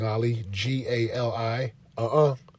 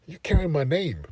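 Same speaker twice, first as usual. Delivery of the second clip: imitating dad; 4 semitones higher than usual. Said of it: "He's like".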